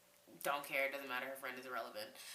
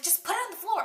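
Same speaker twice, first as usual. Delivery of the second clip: high-pitched, louder mocking retort; dismissive mimicry; 7 dB louder, faster than usual. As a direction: mimic a bratty roommate tossing it back.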